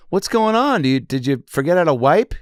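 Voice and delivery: high, prying stewardess voice; hammed-up nosy attendant at the door; mock flight attendant. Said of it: "she's like".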